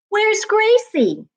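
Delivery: high calling-out voice, slowed; called out loudly. Acted. Someone searching for the runaway dog, calling out high. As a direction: call for the lost dog up the street. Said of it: "she heard someone say loudly".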